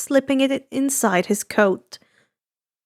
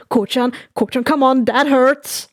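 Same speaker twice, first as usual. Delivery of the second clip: whining. Acted. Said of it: "The broker whined".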